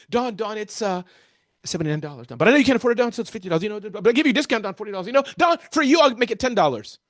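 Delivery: rushed, flustered haggling against himself; self-doubting seller. Acted. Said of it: "I don't believe in myself".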